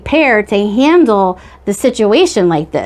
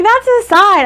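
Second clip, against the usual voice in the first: mock sign believer; 11 semitones higher than usual. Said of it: "I'm like".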